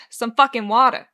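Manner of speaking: shouted out over the noise; loud snap. Acted. Bartender shouting to Oscar over the crowd, loud. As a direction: bark it across the bar.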